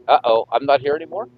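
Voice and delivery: thin, tinny like a sixties radio; transistor radio. Real, not acted. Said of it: "you definitely sound like the nineteen sixties".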